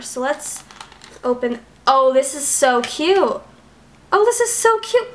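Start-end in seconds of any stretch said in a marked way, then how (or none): 4.1-5.1 put-on much higher, playful baby-talk take; cutesy squeal. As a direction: squeal it like it's adorable. Repeats line in cutesy voice.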